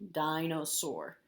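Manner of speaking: slow, syllables kept apart. Shown as a demonstration. Teacher recaps the spelling, slow and syllabic. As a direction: say it slowly by syllable. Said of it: "is the last syllable".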